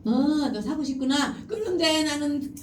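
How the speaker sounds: lightly acted empathizing parent, drawn out; 공감하는 부모. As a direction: draw it out with understanding. (길게 늘여 공감하는 부모 말투)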